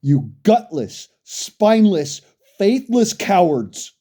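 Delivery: slow, heavy, spat-out insults; slow contemptuous insult. Real, not acted. Ranting at gun owners, slow contemptuous insults. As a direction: drag out each insult with contempt.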